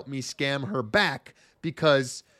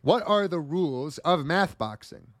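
kindergarten teacher voice. Acted. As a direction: talk like a teacher to little kids. Quizmaster addressing boys and girls.

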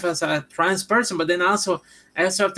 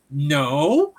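low, weary mock refusal; deadpan denial; 5 semitones lower than usual. Cashier answering another wrong guess, deadpan retold denial. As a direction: answer low, patience wearing thin.

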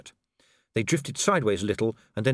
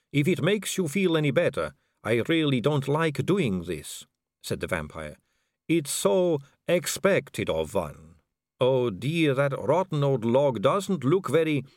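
a vampire noblewoman purring at a dangling man; suave vampire lady; 4 semitones higher than usual. Acted.

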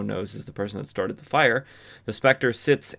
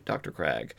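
a lightly voiced stern investigator, lower and softer; low accusing voice; 7 semitones lower, 7 dB quieter than usual. Investigator accusing the building owner, low and pointed. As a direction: drop low and quiet on the name, pointed. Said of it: "Jim Corrigan then says".

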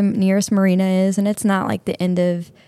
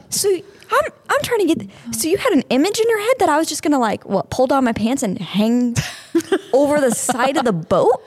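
high, laughing incredulous retort; laughing disbelief; 7 semitones higher than usual. Retold or imitated. Telling the deputy his idea was silly, high laughing retort. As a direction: laugh through the question. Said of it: "I'm like".

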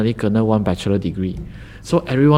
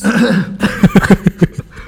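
loud laugh; 10 semitones higher, 7 dB louder than usual. Real, not acted. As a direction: burst of high laughter. Laughs at being called senior.

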